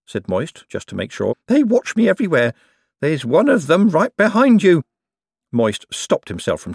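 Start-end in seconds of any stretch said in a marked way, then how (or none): 1.5-4.8 high, anxious confiding voice; high fretful Owlswick. A narrator's reading. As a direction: whisper a paranoid secret. Owlswick's paranoid confession.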